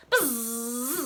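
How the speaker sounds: a short buzz like a game buzzer; buzzer noise. Shown as a demonstration. Children's game leader makes the buzzer sound. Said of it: "Buzz after three".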